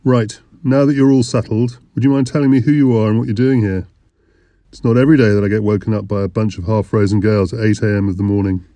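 lightly voiced broad Lancashire innkeeper; broad Lancashire accent. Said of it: "in a broad Lancashire accent".

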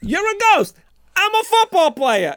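hammed-up high yell; mock hero shout. Acted meeting of two space heroes.

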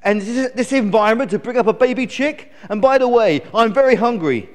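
put-on high, loud bratty baby chick; stroppy high-pitched grumbling; indignant complaining. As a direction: rant at your parents, demanding and put out. Newborn chick scolds its parents.

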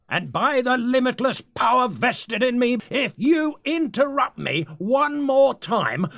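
rising villainous threat; menacing threat. Acted. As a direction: threaten him, building in force. Leader threatens interrupter.

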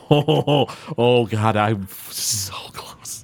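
whispered to himself; whispering. Real, not acted. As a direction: breathe it under your breath. GM mutters to himself.

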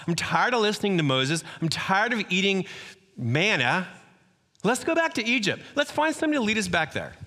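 mild mock grumbling. Preacher voicing Israelites grumbling in the desert, mildly acted. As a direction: sulk and gripe against God and Moses, lightly acted.

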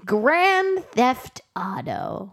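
very slow, lightly voiced Pete; a hint of slow befuddled Pete. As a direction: drag it out like a dazed old man. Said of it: "that was a great Pete voice".

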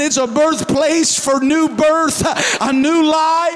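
driving, emphatic sermon delivery; impassioned preaching. Real, not acted. Preacher proclaiming the promise to the congregation, building in force. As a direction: build steadily to a forceful climax.

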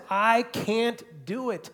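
a heartfelt, raw admission of sin; confessing sinner. Acted. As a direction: pour it out like a broken confession.

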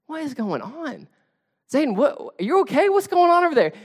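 high-pitched, bewildered calling out; startled questioning. Retold or imitated. Dad calling to screaming son from another room, startled questioning. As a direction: ask in rising alarm, playing it up.

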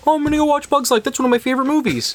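put-on high, fast, eager kid voice; high eager voice of the kid before the ride; excited kid. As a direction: gush like a kid about a favorite movie. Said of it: "It was like".

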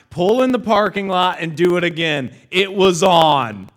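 loud, high, insistent retold command; angry father's order. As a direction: imitate a dad yelling orders, stretching the end.

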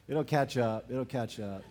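chuckling through the words; laughing. Real, not acted. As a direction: laugh while you say it softly. Laughs at own joke.

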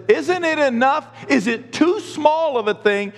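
high, slow, incredulous questions; challenging rebuke. Shown as a demonstration. Pastor replays his whining misreading, high and challenging. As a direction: demand it in mock disbelief. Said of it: "Then I know I'm whining".

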